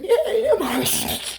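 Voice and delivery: slow, drawn-out, high "Yay, nail polish"; deadpan mock cheer. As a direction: drag out the cheer sarcastically. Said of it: "I'm like".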